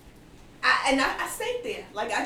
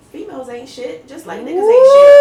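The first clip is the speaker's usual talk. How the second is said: loud, high mock of the friend's line; friend's line repeated loud and high; friend's blunt claim; 6 semitones higher, 14 dB louder than usual. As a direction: throw her words back loudly. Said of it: "she said, you know".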